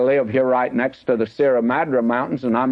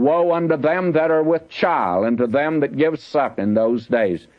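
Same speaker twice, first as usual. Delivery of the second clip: scripture reading; 3 semitones higher than usual. Acted. Reads scripture aloud.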